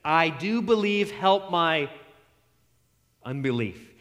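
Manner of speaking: slow, earnest plea of a humble man; pleading father. Retold or imitated. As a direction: beg it slowly, from weakness. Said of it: "the man has a wonderful response".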